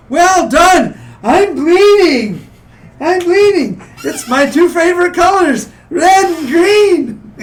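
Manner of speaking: high, slow, loud cartoon troll; dopey cartoon bellow. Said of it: "the troll says".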